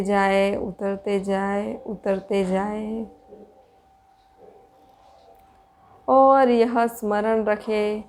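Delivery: measured, even-toned meditation guidance with long pauses; spacious, steady meditation voice; guided meditation. Real, not acted. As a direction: guide listeners inward in unhurried phrases.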